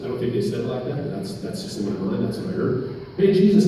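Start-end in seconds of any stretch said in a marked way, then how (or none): 3.2-3.7 loud, raised mock holler; calling out. Blind men hail Jesus from the roadside, loud acted call. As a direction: imitate someone hailing from the roadside. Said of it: "And they're calling".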